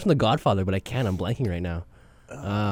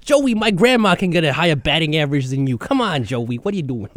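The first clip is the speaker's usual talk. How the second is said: mock New Yorker; 3 dB louder than usual. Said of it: "everybody in New York is named Joey".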